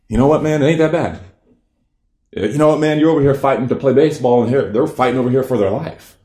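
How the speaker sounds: pep-talk yourself, half laughing at yourself; fired-up self-talk. Retold or imitated. Inner voice, new perspective realized.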